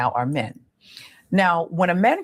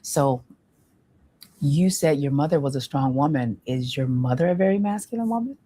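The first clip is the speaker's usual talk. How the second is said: calm probing question; 2 semitones lower than usual. Shown as a demonstration. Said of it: "I'll say".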